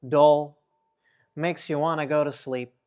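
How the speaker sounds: low, lifeless drone; monotone. Shown as a demonstration. Speaker showing the audience what monotone means, droning low. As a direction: drone with no dynamics at all. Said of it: "There's no dynamics in my voice".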